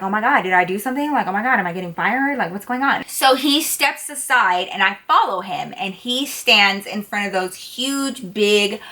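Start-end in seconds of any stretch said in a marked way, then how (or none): 0.0-3.0 quick, mildly panicked inner voice; a little worried. Retold or imitated. Waitress wondering if she is getting fired, mildly worried. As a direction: rattle off retold worries in a fast run. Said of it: "I kinda got a little worried".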